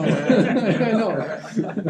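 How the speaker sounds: laughing through the words. Real, not acted. Laughing at flying below it.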